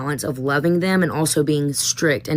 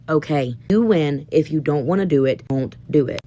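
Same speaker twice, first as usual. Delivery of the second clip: resigned giving in. Retold or imitated. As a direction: let it go, tired of fighting. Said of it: "just to be like".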